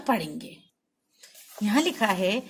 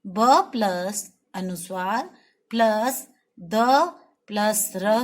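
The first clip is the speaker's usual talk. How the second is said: slow spelling; 2 semitones lower, slower than usual. Shown as a demonstration. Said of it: "किस तरह से लिखेंगे".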